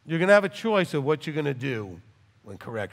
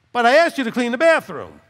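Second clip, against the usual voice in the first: emphatic; 8 semitones higher, 9 dB louder than usual. Real, not acted. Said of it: "stressed complaint".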